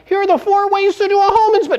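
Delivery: mock boring agent. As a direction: parody a dull realtor reading a tip. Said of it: "Because you're like".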